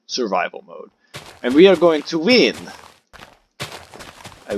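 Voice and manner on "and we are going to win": loud victorious announcement; hammed-up winner's cry; triumphant cheer. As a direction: declare victory grandly.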